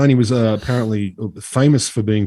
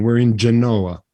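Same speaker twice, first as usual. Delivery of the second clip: Genoa said the Italian way; Italian accent; slower than usual. Shown as a demonstration. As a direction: roll it out Italian style. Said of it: "So my accent comes back properly now".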